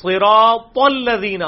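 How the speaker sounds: صراط الذین slow, heavy ص and thick ذ; correct reading. Shown as a demonstration. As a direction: stretch صراط الذین slowly with full Arabic sounds. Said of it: "صراط الذین نہیں ہوگا".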